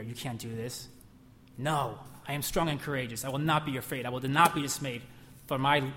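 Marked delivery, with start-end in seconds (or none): 0.0-0.9 soft taunt. Retold or imitated. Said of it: "the devil's whispering in your ear".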